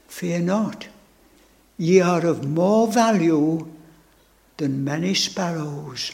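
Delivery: tender reassurance. Retold or imitated. Preacher quoting the Lord's comfort to his soul, hushed and tender. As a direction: speak it gently, like a blessing.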